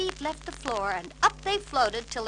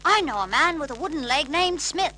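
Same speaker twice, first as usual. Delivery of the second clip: a touch higher, jaunty joke-telling; joking friend; 6 semitones higher, 8 dB louder than usual. A narrator's reading. Bert telling Uncle Albert a joke, jaunty. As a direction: tell the joke with a wink. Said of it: "said Bert".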